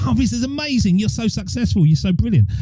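high, soft mock gushing; put-on admiring coo, easing down in pitch; gushing admirers.

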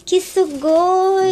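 anime fan. Pretend. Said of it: "poupar o pessoal da nossa empolgação".

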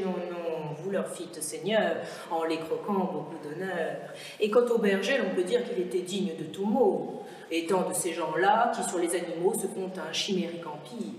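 lightly voiced fox, pitched low; flattering fox. Fox excusing the lion king's crimes, lightly voiced flattery.

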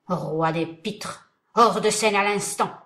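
commanding. Acted. The voice orders him off.

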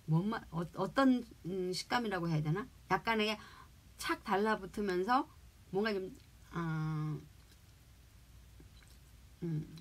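speaking between bites; talking while chewing. Real, not acted. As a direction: mouth partly full of bread. Seen 0: holds pastry, closed-lip chewing motions between words while speaking.

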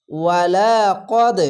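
কদ slow with the final d bounced; qalqala bounce. Shown as a demonstration. Teacher demonstrating qalqala, slow bounced ending. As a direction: recite ওয়ালা কদ slowly, echoing the d. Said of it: "এখানে কলকলা".

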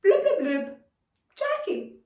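gurgle, then sing the name high; shouting underwater. Shown as a demonstration. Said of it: "how do you say "my name is".

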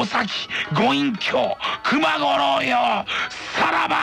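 slow, high dramatic trailer shout; movie trailer voice. Acted. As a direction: announce it like a film trailer.

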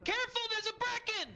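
high urgent warning. Real, not acted. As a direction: call the danger out fast. Warning of enemy.

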